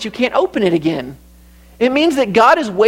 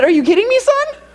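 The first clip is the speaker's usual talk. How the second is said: exasperated dad; 5 semitones higher than usual. Retold or imitated. Father exasperated at son's question.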